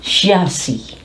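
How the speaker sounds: CHASSIS said SHA-see; chassis pronunciation. Shown as a demonstration. Teacher sums up the spelling rule, chassis as SHA-see. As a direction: start "chassis" on SH, end on a bare SEE. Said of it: "is sounded as C".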